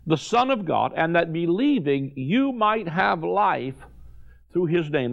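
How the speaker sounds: unhurried reverent verse reading; solemn scripture reading. Acted. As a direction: let each phrase of scripture land. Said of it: "He said".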